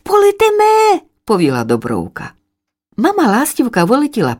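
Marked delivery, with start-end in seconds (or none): 0.0-1.0 eager chick. Acted. Dobrovka eagerly agrees.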